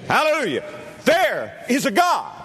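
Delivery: Hallelujah lifted high; exultant Hallelujah; joyful hallelujah. Shown as a demonstration. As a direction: ring out Hallelujah, high and glad. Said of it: "one of these days we'll say".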